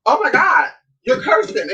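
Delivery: a man shocked by women cussing, mocked in a high prim voice; shocked prude mock. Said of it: "He's like".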